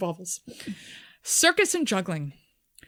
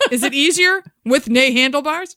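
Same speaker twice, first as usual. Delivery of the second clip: mocking bloke; 5 semitones higher, 7 dB louder than usual.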